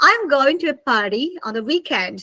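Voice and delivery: American party with r pronounced; American-style weekend sentence; American accent. Shown as a demonstration. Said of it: "So American people".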